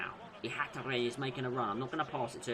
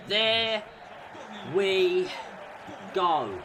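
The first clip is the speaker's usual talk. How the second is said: excited release; 6 semitones higher, 5 dB louder, much slower than usual. Real, not acted. Post-win exhale.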